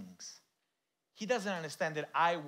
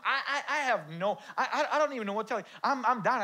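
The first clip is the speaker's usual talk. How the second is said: laughing through prayer; 9 semitones higher, 7 dB louder, faster than usual. Acted. Acted surrendering prayer, laughing.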